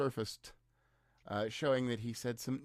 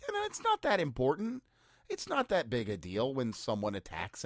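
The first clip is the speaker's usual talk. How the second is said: airy sarcasm, pitched way up. Pretend. Sarcastic dismissal of Article five.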